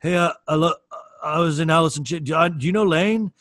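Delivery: the drummer boasts to strangers, mildly mimicked; imitating the drummer. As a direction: brag about knowing Lane. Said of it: "be like".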